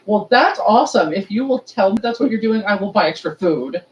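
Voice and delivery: retold scolding. Retold scolding of friend over food.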